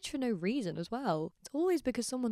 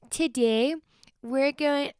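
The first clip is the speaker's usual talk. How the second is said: higher, louder attempt at an Irish-Welsh lilt; wobbly Irish or Welsh impression; bad Irish-Welsh accent; 6 semitones higher, 5 dB louder, much slower than usual. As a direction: imitate a TikTok lady, botched Irish-Welsh accent. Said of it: "Irish and Welsh, I can't do".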